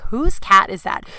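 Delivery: drawn-out but toned-down mimicry; amused quote-back. Teasing neighbor about her reaction, amused.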